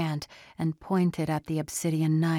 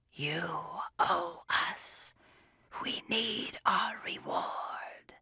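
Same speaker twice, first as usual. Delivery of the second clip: soft, slow breathy demon; a greedy demon demanding; creature voice; 7 dB quieter, slower than usual. A narrator's reading. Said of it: "the creature bellowed".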